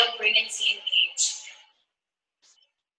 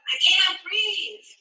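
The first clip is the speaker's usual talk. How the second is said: retold yell; 9 semitones higher, much slower than usual. A protester calling out suddenly from the crowd, retold drawn-out yell. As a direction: draw out a higher-pitched imitated cry. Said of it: "somebody yells out".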